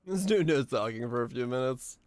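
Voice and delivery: usual speaking voice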